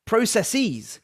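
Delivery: processes ending in a long -eez; American process-eez. Shown as a demonstration. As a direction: stretch the end of processes to -seez. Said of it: "the second version is American".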